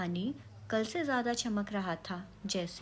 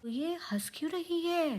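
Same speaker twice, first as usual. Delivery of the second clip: frightened cry; 6 semitones higher than usual. A narrator's reading. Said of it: "पैकी चीख पड़ा".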